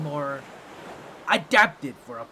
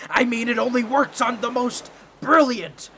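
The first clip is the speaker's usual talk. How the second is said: laughing cover-up; 5 semitones higher, 6 dB louder than usual. Acted.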